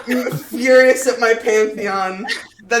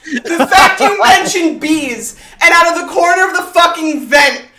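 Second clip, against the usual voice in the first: laughing rant; 5 semitones higher, 5 dB louder than usual. Real, not acted. Ranting while laughing about wasp.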